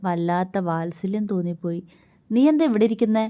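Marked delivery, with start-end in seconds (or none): 2.3-3.2 mock-serious question; stern. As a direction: ask her gravely. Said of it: "ഗൗരവത്തോടെ".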